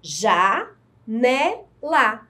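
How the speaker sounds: janela said slowly as ja-ne-la; slow, clear ja-ne-la for the class; syllable separation. Shown as a demonstration. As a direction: space out each syllable of janela. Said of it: "Fazendo a separação silábica".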